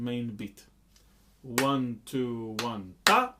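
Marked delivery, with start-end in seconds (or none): 1.4-3.3 counted beats with ta punched louder; ta on the upbeat. Shown as a demonstration. Teacher placing ta after the second main beat. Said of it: "the syllable ta, will fall".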